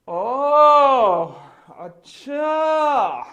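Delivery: long, stretched oh and acha, pitch up; milk the mock realisation slowly; drawn-out surprise. Owner mocking the workers' demand, stretched-out surprise.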